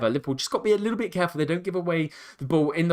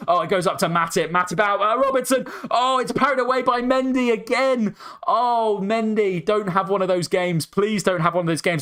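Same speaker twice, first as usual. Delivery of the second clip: excited goalmouth call; 7 semitones higher than usual. Real, not acted. Fan commentator begging Mendy during a scramble, high excited plea. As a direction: ride the goalmouth scramble with rising urgency.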